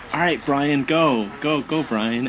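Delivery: bright hype-up call; cheering crowd. Retold or imitated. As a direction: egg him on like a fan. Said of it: "I'll hear somebody just go".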